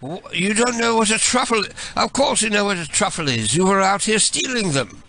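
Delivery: high, indignant British accuser; British accent. Pretend. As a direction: accuse him in a mock British voice. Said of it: "switch to my British voice".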